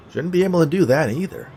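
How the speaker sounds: high, loud character voice; puzzled skeleton. A narrator's reading. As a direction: pipe it up, surprised by the broken rules.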